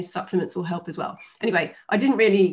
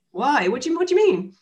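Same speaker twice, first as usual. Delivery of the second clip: retold bafflement; 7 semitones higher, 4 dB louder than usual. Retold baffled reply to dad.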